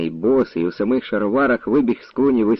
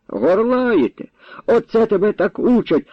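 indignant; 10 semitones higher than usual. Acted. Grandfather scolding insolent Feofan, indignant. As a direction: throw the word back, scolding.

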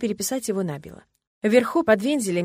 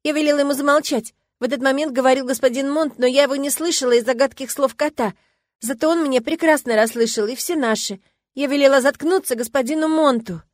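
higher, louder upset account; distressed girl; 7 semitones higher, 5 dB louder than usual. A narrator's reading. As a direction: tell it close to tears. Girl recounting, near tears. (девочка почти плачет)

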